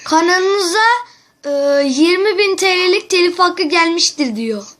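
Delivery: yüksek sesle telaşlı oyunculuk; korkmuş gibi yap, sesini yükselt; panik numarası. Acted. Telefon şakası, panik numarası. (arkadaşına kanalı silindi diye panikle sesleniyor)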